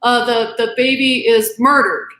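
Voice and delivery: getting emotional. Real, not acted. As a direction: voice climbs as the feeling takes over. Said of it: "I get a little emotional".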